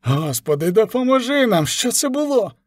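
high, startled sailor crying out to God; alarmed cry. A narrator's reading. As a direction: cry out in sudden fright. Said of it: "Вигук одного з чоловіків".

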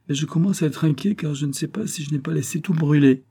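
amused confession of mild worry; smiling, mildly worried. A narrator's reading. Colonel to startled girl about the pan, smiling apology. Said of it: "dit le colonel en souriant".

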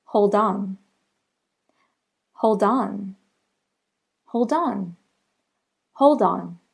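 "Hold on" with the d sliding into "on"; linked demo. Shown as a demonstration. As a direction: join "Hold on" as one word. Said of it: "The next example is hold on".

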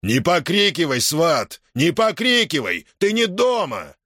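резко, с напором; рявкни на свата; рявкнул. A narrator's reading. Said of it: "Епифан рявкнул на него". (резкий окрик)

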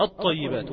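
"الطيبات" with the lam silent and the ط doubled; assimilated lam. Shown as a demonstration. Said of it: "تقول".

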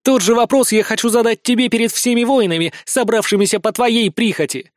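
solemn challenge to her father. A narrator's reading. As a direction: proclaim it before the warriors. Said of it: "выдаёт кошка торжественно".

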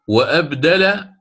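stretched slowly, word by word; drawn out. Shown as a demonstration. Teacher models the short answer, drawn out. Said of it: "وإن شئت فقل".

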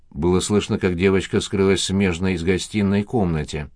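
ordinary delivery

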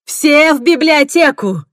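loud, high shouted order; a loud, high order to the others. Acted. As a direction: command everyone out. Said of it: "крикнула я остальным".

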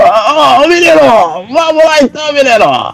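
high-pitched imitation. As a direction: put on the con man's voice. Imitating con man, continued.

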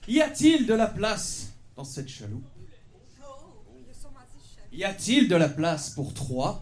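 lightly voiced leading lady, pitched high; mock melodrama plea from the boat; hammed-up actress line. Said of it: "je vais vous jouer une scène". (voix de comédienne surjouée, aiguë)

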